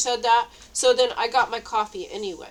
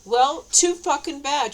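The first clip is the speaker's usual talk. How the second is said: angry outburst; 5 semitones higher, 5 dB louder, slower than usual. Real, not acted. Ranting at quiet talkers.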